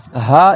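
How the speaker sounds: Ha with throat open, no friction; open, airy H. Shown as a demonstration. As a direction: let only air out on Ha. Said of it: "ouvres toute la gorge".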